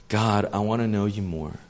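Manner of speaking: sincere prayer. Shown as a demonstration. Sincere prayer contrasted with demanding one.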